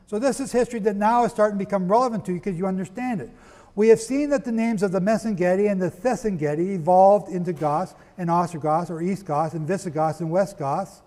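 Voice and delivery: hurried lecturing pace; rushing through the explanation; talking fast. Real, not acted. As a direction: rattle through the history quickly. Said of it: "I'm talking fast".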